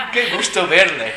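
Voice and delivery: slow, loud, laughing nice to see you; mock courtesy while laughing; laughing fake politeness. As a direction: force politeness through laughter. Forced polite reply, laughing.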